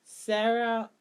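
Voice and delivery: full Yoruba name, said the Yoruba way; Yoruba accent. Real, not acted. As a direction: give the name its proper Yoruba tones. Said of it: "A full Yoruba accent".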